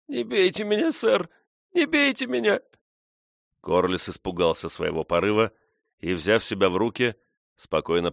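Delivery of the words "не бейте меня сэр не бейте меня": very high, pleading, frightened whine; whimpering. A narrator's reading. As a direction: cower and beg in a high whine. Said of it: "захныкала".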